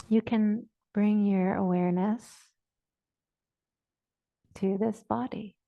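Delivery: measured, even phrases, long silences between; guided meditation. Real, not acted. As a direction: guide listeners unhurriedly into the body. Leads a body awareness meditation.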